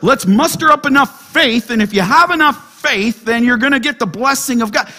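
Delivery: mock prosperity preacher. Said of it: "It's just like".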